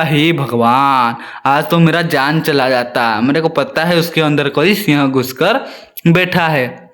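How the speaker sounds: a scared jackal gasping to god, then muttering; frightened jackal. Acted. Jackal fears lion in den. (डरे हुए सियार की धीमी, भारी आवाज़)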